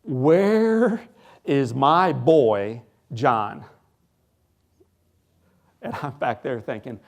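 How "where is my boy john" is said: grabbing attention of everyone on the ward; retold dad yelling. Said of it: "He's yelling at some poor nurse".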